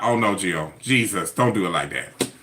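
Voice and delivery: dismayed. Retold or imitated. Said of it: "Y'all gonna be like".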